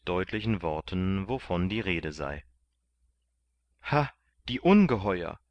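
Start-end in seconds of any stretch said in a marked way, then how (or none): 3.8-5.4 outraged cry. A narrator's reading. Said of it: "rief Kandid aus".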